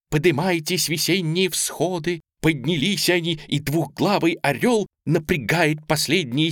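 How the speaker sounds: slow, solemn verse declamation; inspired recitation. A narrator's reading. Girl reciting revolutionary verse to her aunt, inspired.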